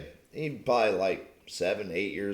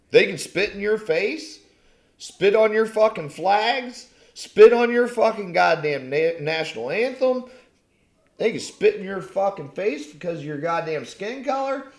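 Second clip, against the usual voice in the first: louder, higher, spitting each word out; angry rant; 6 semitones higher, 5 dB louder than usual. Real, not acted. Ranting at football fans about the anthem, furious and loud. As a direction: tear into them, building fury.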